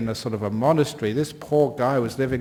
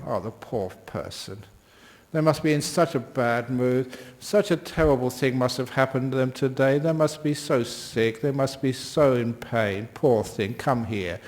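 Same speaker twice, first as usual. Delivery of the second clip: tender pity. Pretend. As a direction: coo over them, then call them to a hug. Pity for a shouting person.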